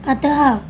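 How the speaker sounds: अतः with a breathy h release at the end; visarga demo. Shown as a demonstration. Teacher shows children how अतः ends, aspirated h. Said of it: "तो हम इसका उच्चारण कैसे करते हैं".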